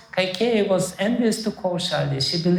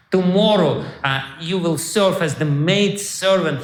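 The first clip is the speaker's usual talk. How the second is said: menacing warning. Retold or imitated. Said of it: "she started saying".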